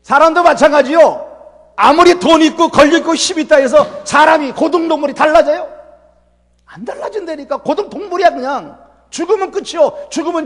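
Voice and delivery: fiery sermon emphasis; preaching loud. Real, not acted. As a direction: proclaim it to the whole congregation.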